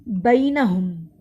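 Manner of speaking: slow drawn-out Quranic recitation of बैनहुम; tajweed recitation. Shown as a demonstration. Teacher demonstrating a word to students, slow chant. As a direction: recite बैनहुम slowly with a held vowel. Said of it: "मैंने तरा ज़ऊ इसलिए इस तरह से पढ़ा".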